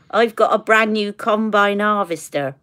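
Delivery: lightly done West Country Somerset burr; Somerset accent. Shown as a demonstration. Woman quoting the combine harvester line, Somerset accent. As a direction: put on a bit of Somerset farmer. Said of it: "he does the accent".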